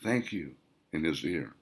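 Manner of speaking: very soft, breathy thank you whispered into his ear. Acted. Melody thanking Wayne in his ear while dancing, whispered. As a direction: barely voice the words, intimate. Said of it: "she whispered".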